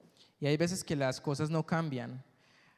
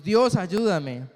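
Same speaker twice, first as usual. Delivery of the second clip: imploring plea; 2 semitones higher, 8 dB louder, much slower than usual. Retold or imitated. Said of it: "le decimos".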